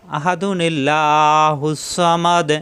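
slow chanted tilawat with long drawn vowels; Quran recitation. Shown as a demonstration. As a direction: recite slowly, stretching each vowel. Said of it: "এভাবে পড়তে হবে।".

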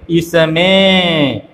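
इसमें read out very slowly, nasal ending on में; anusvara reading demo. Shown as a demonstration. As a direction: stretch इसमें, letting the last vowel hum into the nose. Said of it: "तो इसको ऐसे पढ़ेंगे". (इसमें को धीरे-धीरे खींचकर, अनुस्वार के साथ पढ़ें)

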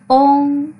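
"ôn" as a long level ong, mouth slightly open and hollowed, unlike Vietnamese ung; open rounded ong. Shown as a demonstration. Teacher models the final for learners, open rounded ong. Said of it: "hơi mở miệng ra một chút".

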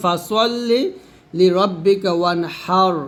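slow "ফাসল্লি লি রব্বিকা ওয়ানহার" with a throat হা; Quranic recitation. Shown as a demonstration. Teacher reciting the verse to show the throat ha, slowly. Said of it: "এই যে হা".

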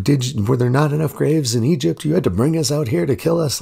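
hammed-up griping at Moses, pitched well up; mock complaining Israelites. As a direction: play the grumbling crowd, high and incredulous. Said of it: "they are complaining, like".

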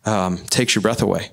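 breath catching in a near-whisper, fighting tears; words barely making it out, choked with emotion. Real, not acted. Speaking to the crowd about the children, choked whisper. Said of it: "sorry I'm getting choked up".

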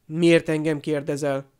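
mildly gruff comeback question; a touch of irritation; rude retort. Acted. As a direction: throw the question back rudely. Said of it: "felelt goromban Harry".

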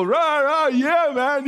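hammed-up pom-pom cheer; mock cheer. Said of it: "not everybody is going to go".

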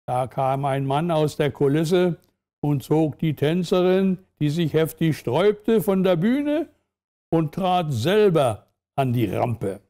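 measured storyteller reading; story narration. A narrator's reading. Narrator sets a dance-hall scene for listeners, measured story narration. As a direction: read it out with clear pauses between phrases.

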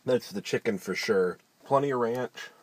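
chewing between words; talking with food in mouth. Real, not acted. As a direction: mouth partly full. Seen 0: Bites at -7, cheeks still working while speaking, food in hand.

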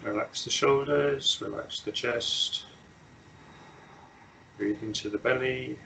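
unhurried meditation guidance with long silences; measured instructions, leaving long pauses to settle; guided meditation. Real, not acted. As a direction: guide them gently into stillness, phrase by phrase.

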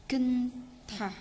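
"kinh thả" in two separated syllables; demonstrated pronunciation. Shown as a demonstration. Teacher showing how 끊다 is read, slowly as "kinh thả". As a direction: draw out "kinh", then aspirate "thả". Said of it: "Chỗ này chúng ta sẽ đọc là".

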